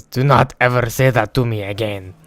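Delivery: loud imitation of an offended classmate; mock angry warning. Offended classmate warning his teasers, mock anger. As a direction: put on his stern, forceful warning.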